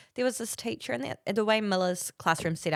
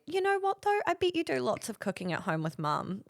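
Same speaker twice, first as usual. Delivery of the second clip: high, coaxing teacher voice; sing-song encouragement, starting high; imitated sweet teacher; 7 semitones higher than usual. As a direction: coax a small child along. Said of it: "But then she said".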